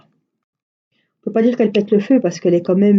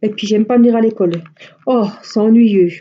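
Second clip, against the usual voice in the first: put-on whiny child; 3 semitones higher, 5 dB louder than usual. Mother imitates whining daughter.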